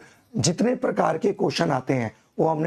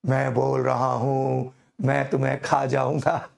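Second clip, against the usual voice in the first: mock ghost voice. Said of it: "वो भूता फिल्मों में".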